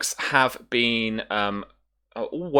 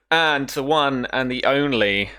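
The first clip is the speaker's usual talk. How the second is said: drawn-out, raised announcer build-up; showy introduction; 5 semitones higher, 4 dB louder, slower than usual. Pretend. Host introducing the last player, showman's build-up. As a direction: present the star guest, slowly and grandly.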